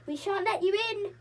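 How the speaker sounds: high, loud shout through the door; defiant yell. A narrator's reading. Joe yells defiance at the white bears, loud. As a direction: shout them off. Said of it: "yelled Joe".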